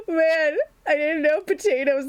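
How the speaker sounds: real laughter in the voice; laughing. Real, not acted. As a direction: still giggling through the words. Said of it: "I'm sobbing".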